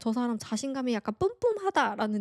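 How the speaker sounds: plain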